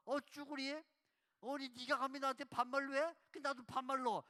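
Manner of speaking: loud, mock-offended comeback; mock indignant. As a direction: play Jesus snapping back in kind, loudly. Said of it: "그러니까 예수님도". (발끈한 듯 크게 반말로 맞받아치며)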